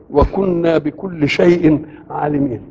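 slow, measured chanted recitation; Quran recitation. Acted. Preacher recites the verse on Solomon's wind, slowly chanted. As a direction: draw out each word of the verse.

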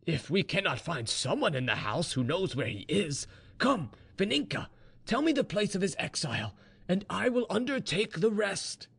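father cheerfully offering help, high-pitched; smiling. A narrator's reading. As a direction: smile through it, pitch climbing high as you urge.

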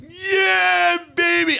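very high, loud, cocky cocaine voice; cocaine talking. Acted. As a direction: purr it like a coked-up party guy. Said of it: "And cocaine was like".

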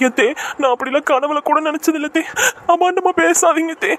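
wounded, weepy denial; tearful protest. Acted. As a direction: plead through tears, drawing out the last words. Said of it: "நீலி கண்ணீர் வடிச்சு வடிச்சு".

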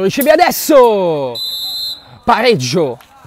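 sudden loud burst for the equaliser; excited goal call. Real, not acted. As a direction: erupt as the ball goes in. Goal scored, commentator erupts. (grido eccitato per il gol)

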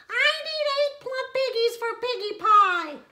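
high, loud bossy witch voice; demanding witch. A narrator's reading. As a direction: bark orders like a greedy witch.

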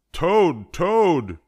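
very high, loud calling; loud, high-pitched call to a friend; urgent cry. A narrator's reading. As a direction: cry out the name, high and insistent. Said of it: "cried Frog".

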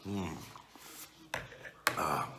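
chewing while speaking; talking around food; mouth full. Real, not acted. Seen 4: Takes forkful of pasta, cheeks puffed, chewing and wiping mouth.

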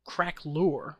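Craquelure said as "crack-loor"; pronunciation demo. Shown as a demonstration. Teaching viewers how it's pronounced, Craquelure as crack-loor. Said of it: "is how it's pronounced".

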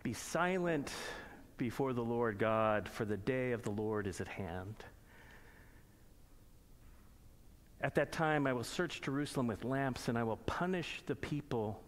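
measured, solemn reading of scripture. Acted. Pastor reading Zephaniah to the congregation, solemn. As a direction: read the prophet's words with weight.

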